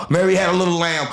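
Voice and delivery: exaggerated sing-song recital; mock sing-song reading. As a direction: parody of reading aloud stiffly. Mocking robotic reading from phone.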